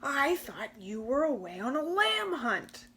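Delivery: a hint of a hungry wolf; wolf growl. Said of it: "growled the creature".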